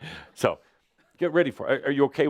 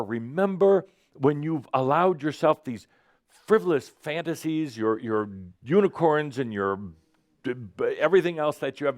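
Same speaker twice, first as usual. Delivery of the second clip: higher, mildly hammed-up scolding; the nagging mind; 5 semitones higher than usual. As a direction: lightly play the exasperated mind telling someone off. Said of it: "I'm playing the part of the mind".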